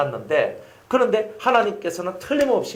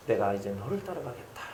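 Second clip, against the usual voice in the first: softer, lower weak voice; frail father's vow; 6 semitones lower, 11 dB quieter than usual. Retold or imitated. Dying father telling his son he will follow him, softly. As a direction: say it faintly like an old sick man. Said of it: "돌아가시기 이제 그 한 달 전".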